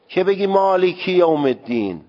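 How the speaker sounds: مالکی with a short Arabic kasra, not a long یا. Shown as a demonstration. Teacher demonstrating the correct Arabic kasra in مالکی. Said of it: "از نظر لهجهٔ عربی حرکت کسره اینه".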